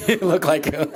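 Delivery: laughing through the repeated line; giggling echo of own words. Real, not acted. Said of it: "because you look like you".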